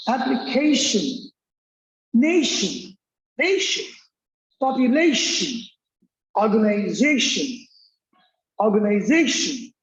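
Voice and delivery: application, nation, organization repeated, stress on the -tion syllable; teacher modelling word stress; drilled words. Shown as a demonstration. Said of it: "Like, that is application".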